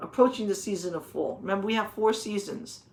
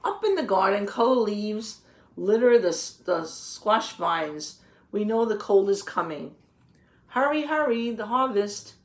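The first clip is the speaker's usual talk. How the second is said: lively picture-book read-aloud, a little louder; reading to children; 4 dB louder than usual. A narrator's reading. Teacher reading the garden book to the children, storybook voice. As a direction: read the page out to the class, with relish.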